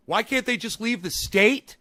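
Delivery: slow, loud mocking echo of her words; mocking quote. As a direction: parrot her line back with scorn. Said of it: "why did you say".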